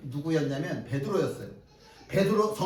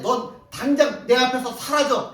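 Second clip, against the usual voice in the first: loud command; 6 semitones higher, 6 dB louder than usual. Acted. Jesus commanding the devil.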